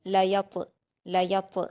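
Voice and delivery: "लयत" ending in a bounced, echoing heavy t; qalqala bounce. Shown as a demonstration. Teacher demonstrating qalqala, bouncing the end of "लयत". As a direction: release the final t of "लयत" with a small bounce. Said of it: "कलकला करेंगे".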